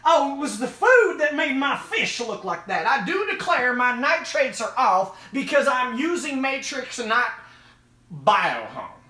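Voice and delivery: high, loud mock-indignant voice; hammed-up fretting complainer; blame-shifting fish keeper. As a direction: protest theatrically in a put-on high voice. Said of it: "and we blame".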